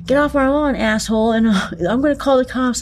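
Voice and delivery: high, mock-angry neighbor yelling off his lawn. Neighbor shooing a stranger off the lawn, mock-angry high yell. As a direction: imitate a fed-up homeowner snapping at a trespasser. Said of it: "somebody called the cops".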